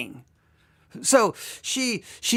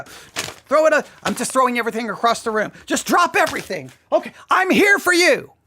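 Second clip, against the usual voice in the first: mock eager rush; 2 semitones higher than usual. The overeager lover dropping everything, hammed-up eagerness. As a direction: scramble to please, hammed up. Mocking the eager over-giver.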